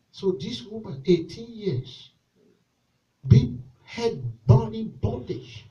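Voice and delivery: very soft, slow retelling; hushed storytelling. Real, not acted. Pastor softly retelling the woman's suffering. Quiet aside.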